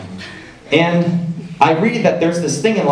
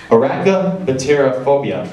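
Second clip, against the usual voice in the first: said slower. Shown as a demonstration. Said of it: "I'll say that a little slower for you".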